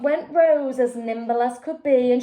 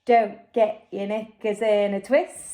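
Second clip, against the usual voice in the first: put-on lower, unbothered boy's voice; calm Jack; 4 semitones lower than usual. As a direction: brush off the panic coolly. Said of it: "said Jack".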